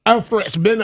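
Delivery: put-on weak first try at a Kiwi accent; half-hearted New Zealand accent, soon dropped; bad New Zealand accent. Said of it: "that's not a good, uh, New Zealand accent".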